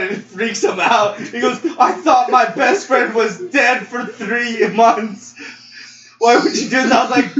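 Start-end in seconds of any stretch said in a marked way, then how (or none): 1.8-6.9 higher-pitched, indignant retelling; acted upset protest. Retelling a friend learning the death was faked, acted upset. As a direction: protest as the pranked best friend.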